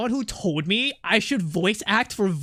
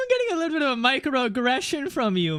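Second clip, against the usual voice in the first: mock hurt; 5 semitones higher than usual. Vietnamese streamer teases chat over a microaggression in mock hurt. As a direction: whine it as if wounded, jokingly. Jokingly hurt by chat's remark.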